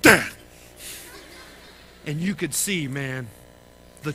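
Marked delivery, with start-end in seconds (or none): 0.0-0.3 a sudden loud call for dad. Retold or imitated. Lost boy shouting for his dad. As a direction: yell for your dad across the room.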